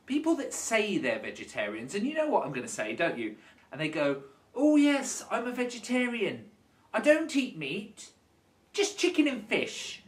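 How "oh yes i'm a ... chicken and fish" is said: mock-proud claim, lightly higher voice; lightly put-on virtuous vegetarian; self-styled vegetarian.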